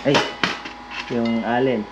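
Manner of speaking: normal talking voice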